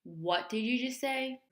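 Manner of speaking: loud, slow, incredulous outburst; acted shocked disbelief. Daughter hearing she must stay overnight, acted shocked disbelief. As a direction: draw out the question, then burst out loudly.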